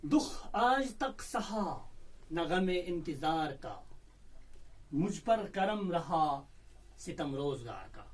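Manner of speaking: slow recital of an Urdu couplet; poem recitation. Shown as a demonstration. Teacher reciting a new couplet to students, slow. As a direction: let each phrase hang before the next.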